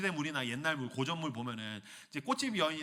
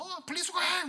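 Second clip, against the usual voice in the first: bossy wife, higher. Acted. Wife ordering husband.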